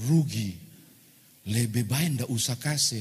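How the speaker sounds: hint of Manado dialect; lightly acted stingy wife in Manado accent. Wife urging husband not to give, Manado accent. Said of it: "kalau saya pakai logat Manado".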